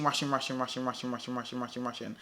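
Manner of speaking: hurried chant sinking low and soft; imitated rushing. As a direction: rattle it off, fading away. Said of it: "I was rushing".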